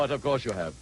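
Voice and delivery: a lightly disguised put-on voice; mystery guest voice. Guest disguising his voice to stump the panel, lightly put on. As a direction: hide your own voice from the panel, lightly. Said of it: "What was that voice?".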